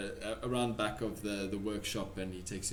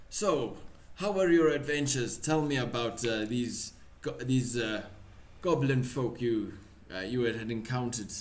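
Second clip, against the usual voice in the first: put-on wavering Russian accent. Pavlov asking his guest about adventures, wavering Russian accent. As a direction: ask in a slipping Russian accent. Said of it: "I keep losing the accent".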